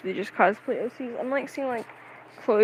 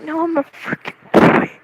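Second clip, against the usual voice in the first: loud, higher-pitched mock protest; hammed-up indignant yell; frustrated outburst; 7 semitones higher, 7 dB louder than usual. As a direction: burst out in exaggerated indignation. Imagined outburst at being misgendered.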